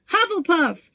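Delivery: the Hat cries out the house; shouted. A narrator's reading. Sorting Hat announces to the hall, a high loud shout. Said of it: "shouted the Hat again".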